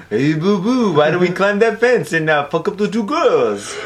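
lightly voiced cartoon bear; cartoon bear impression, trailing out slowly; Yogi Bear. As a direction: bear hatching a plan with his pal. Playing Yogi plotting with Boo Boo.

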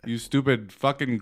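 badly faked Indian accent, cursing; mock Indian scammer swearing, accent not landing; half-hearted Indian accent. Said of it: "I can't do an accent".

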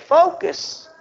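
a hint of a commanding God, drawn out slowly; lightly voiced divine command, slow. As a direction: speak as God urging focus. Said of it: "for God to really say".

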